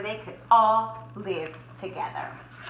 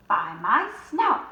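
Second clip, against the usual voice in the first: startled cry; 4 dB louder, slower than usual. Acted. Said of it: "cried Horace".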